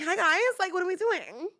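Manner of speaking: put-on high-pitched valley girl; valley girl accent. Shown as a demonstration. Nanny getting kids' attention, valley girl accent. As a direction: chirp it like a mock valley girl. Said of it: "valley girl, a valley girly".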